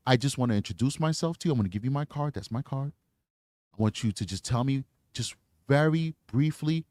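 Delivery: victim-friendly interview voice; gentle reassuring. Shown as a demonstration. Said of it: "That's how you talk to somebody".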